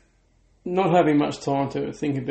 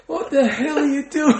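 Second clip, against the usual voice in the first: laughing; 11 semitones higher, 4 dB louder than usual. Retold or imitated. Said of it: "And I'm like".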